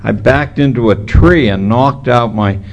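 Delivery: slight lisp from missing front teeth. Real, not acted. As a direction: talk through a gap in the teeth. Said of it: "So if I lisp through this thing".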